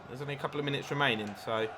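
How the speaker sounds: fast and breathless commentary; out of breath. Real, not acted. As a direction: talk as if winded. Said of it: "I'm out of breath".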